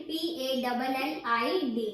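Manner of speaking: slow, letter by letter; spelling out letters. Shown as a demonstration. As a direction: spell out each letter slowly for the class. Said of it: "spelling the word for students".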